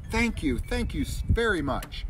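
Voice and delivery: high, happy small fish voice; little fish thanking. Acted. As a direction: thank him like a tiny fish.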